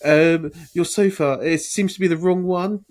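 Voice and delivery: King's English. Retold or imitated. Dad complaining by phone about the sofa, exaggerated King's English. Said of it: "He was like he was on The Crown".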